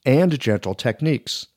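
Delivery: polished, upbeat read of a sponsor spot. Acted. Host reads a needle sponsor ad to podcast listeners, polished ad voice. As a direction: sell the product smoothly to listeners.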